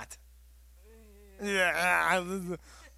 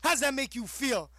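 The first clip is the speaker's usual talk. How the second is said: higher, louder deadpan retort; loud comeback; 10 semitones higher, 6 dB louder than usual. Retold or imitated. Cohost mimicking Caden's comeback, loud and high. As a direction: hit back hard. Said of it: "I was like".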